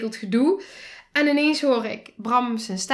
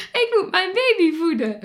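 desperate plea; 9 semitones higher, 5 dB louder than usual. Retold or imitated. Retold plea to keep milk.

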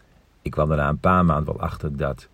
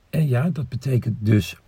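voice cracking; 7 semitones higher, 8 dB louder than usual. Real, not acted. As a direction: voice breaks mid-sentence. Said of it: "mijn keel oversloeg".

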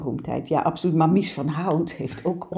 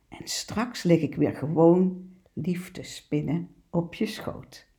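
lively picture-book poem reading, cat speaking; poem read aloud. Acted. Presenter reads the naughty cat poem to listeners, playful reading. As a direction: read it like a cheeky cat boasting.

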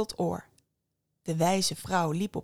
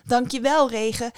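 high, loud grateful call; calling out thanks; 5 semitones higher, 6 dB louder than usual. A narrator's reading. Woman running down the mountain thanking the rain, calling out. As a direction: call your thanks out on the run. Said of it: "riep ze".

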